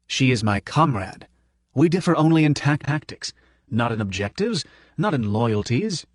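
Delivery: a hint of a slow, earnest old gentleman; lightly voiced professor defending his comrade; insistent professor. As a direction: Prof insisting on loyalty. Prof insists she is comrade.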